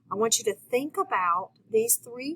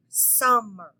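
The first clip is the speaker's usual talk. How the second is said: "Summer" with SUM hit harder; stress on first syllable. Shown as a demonstration. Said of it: "which part do we say a little harder".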